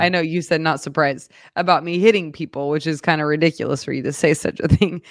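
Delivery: talking through real laughter; laughing. Real, not acted. Co-host apologizes during a grim bear story, laughing. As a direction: try to explain while giggles break in. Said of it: "And now I'm laughing".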